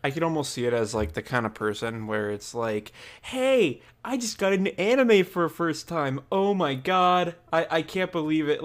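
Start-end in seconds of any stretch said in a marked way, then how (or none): 3.2-8.6 high, gushing new anime fan; overexcited fan. Retold or imitated. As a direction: gush like a brand new fan.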